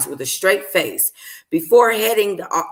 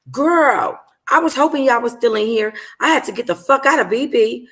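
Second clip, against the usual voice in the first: Dior's voice; 6 semitones higher than usual. Acted. Dior voiced, concerned.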